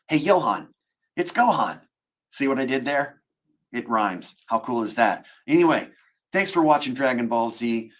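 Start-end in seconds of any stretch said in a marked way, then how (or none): 0.1-1.8 higher, upbeat cartoon hero greeting; Gohan. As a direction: greet a young fan as the anime hero. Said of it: "in the Gohan voice".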